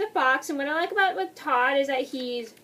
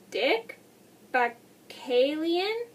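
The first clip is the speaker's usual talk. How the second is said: halting, slow attempt at an unfamiliar name; unsure pronunciation; 3 semitones higher, much slower than usual. Real, not acted. Reviewer naming a voice actor they can't pronounce, unsure and halting. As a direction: feel your way through the surname, questioning it. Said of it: "I don't know how to pronounce it".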